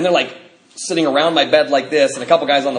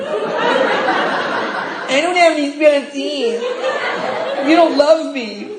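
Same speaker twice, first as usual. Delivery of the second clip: higher, slow words through laughter; laughing lament; 11 semitones higher, much slower than usual. Real, not acted. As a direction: wail it while laughing.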